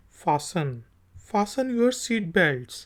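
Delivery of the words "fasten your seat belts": Fasten your seat belts said very slowly; slow, clear airline line; slow example. Shown as a demonstration. Teacher reads the airline line slowly. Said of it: "जहाज में कहा जाता है".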